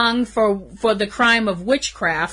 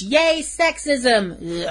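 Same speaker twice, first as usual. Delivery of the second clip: sarcastic; 2 semitones higher, much slower than usual. Real, not acted. Sarcastic cheer about sexism.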